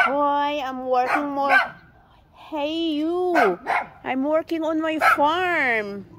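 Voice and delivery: high, slow mock-English talk; put-on English voice. Vlogger mock-lecturing the barking dog, high put-on English voice. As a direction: play a prim foreigner talking down to a dog.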